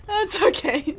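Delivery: loud, very high shout breaking into laughter; high, helpless howl of disbelief; laughing scream. Real, not acted. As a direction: shriek in dismay and crack up. Killed, cracks up.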